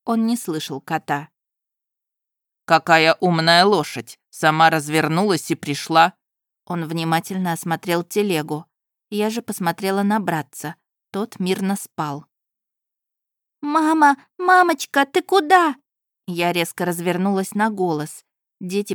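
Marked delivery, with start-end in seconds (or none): 2.6-6.1 groom exclaiming. Acted. 13.6-15.8 put-on much higher, louder child's cry; a little child calling for mama; children call after their mother, high and loud; frightened child.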